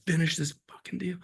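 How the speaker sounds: high, mock furious yell of a dealmaker. Dealmaker yelling at a negotiator whose house burns, mock yell. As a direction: bark it like a boss who won't wait. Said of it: "and he was like".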